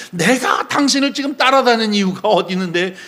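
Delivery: acted-out disciple's complaint; indignant protest. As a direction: argue back as if betrayed. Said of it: "하면서 항변하는 의미를 말하는 거죠".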